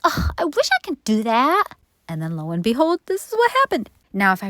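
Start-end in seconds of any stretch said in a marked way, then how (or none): 0.0-1.6 higher, dreamy sigh of longing; wistful wish. Retold or imitated. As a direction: yearn for it like a fan. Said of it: "I was like".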